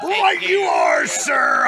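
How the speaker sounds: high breathy stage whisper; mock stage whisper. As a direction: hiss it like a secret. Playful exaggerated whisper.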